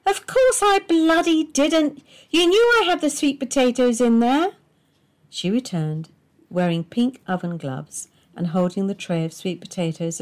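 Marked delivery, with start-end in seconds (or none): 0.1-4.6 a high, loud, slowed-down furious wife; angry retort. A narrator's reading. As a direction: bite every word at him.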